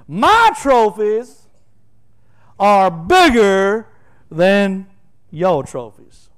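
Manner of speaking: loud, slow gloating boast; bragging boast. Pretend. Preacher voicing Paul's brag, slow loud gloating. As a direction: drag out each word to rub it in.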